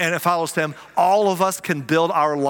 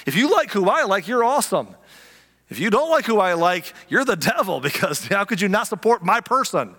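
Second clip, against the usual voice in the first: mock crowd fan; 4 semitones higher than usual. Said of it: "They're like".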